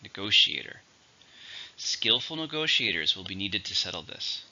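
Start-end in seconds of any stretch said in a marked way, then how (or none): 0.0-0.8 "Negotiator" with GO stressed; stress on second syllable. Shown as a demonstration. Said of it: "stress on the second".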